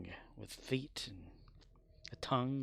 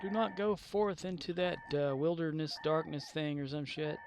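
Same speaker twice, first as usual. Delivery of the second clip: mock oration; 4 semitones higher than usual. Mock poetic speech, half remembered.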